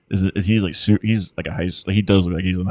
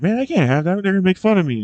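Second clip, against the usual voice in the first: higher, whiny kid worried about mockery; mock whiny student; 11 semitones higher, faster than usual. Retelling a movie student refusing the book, higher whiny voice. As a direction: play the kid begging off, pitched up.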